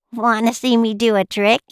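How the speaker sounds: lightly voiced eager little cup; a hint of a playful child's voice; little teacup. Little teacup offers a trick.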